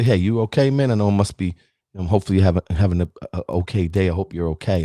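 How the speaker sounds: low, easygoing, kindly check-in; calm reassurance. Acted. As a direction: reassure a stranger in a low, halting voice. Imagined kind driver checking on other.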